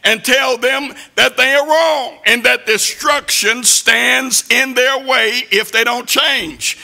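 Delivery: rising, pounding sermon delivery; preaching at full force. Acted. Preacher warning the church about temptation, pounding sermon voice. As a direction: preach it hard at the congregation.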